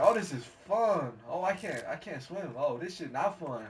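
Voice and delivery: acted delight collapsing into dismay; glee turning to alarm. Realizing he can't swim after the slide, glee fading to dismay.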